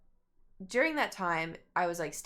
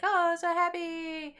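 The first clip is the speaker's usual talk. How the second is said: high, slow, gushing fan squeal; mock fan squeal; 10 semitones higher, 4 dB louder, much slower than usual. Fan mimicking the crowd after a song, high gushing squeal.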